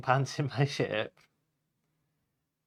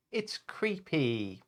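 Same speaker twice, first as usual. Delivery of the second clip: slow creepy hush; 3 semitones higher, 5 dB quieter, slower than usual. Acted. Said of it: "Turtle cried".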